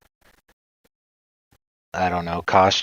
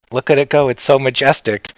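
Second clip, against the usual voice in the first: mock awe; 6 semitones higher, 5 dB louder than usual. Mock-admiring the stumbling pony.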